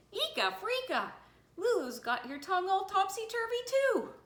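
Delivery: high, loud alarmed outburst; frantic exclamation. A narrator's reading. Missus Bell accuses the principal of catching it, frantic. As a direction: cry it out in outraged panic.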